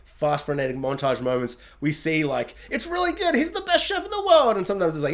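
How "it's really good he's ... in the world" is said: much higher, singsong praise; lightly voiced rave review; mock gushing critic. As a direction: gush like an over-excited reviewer. Voicing glowing review snippets.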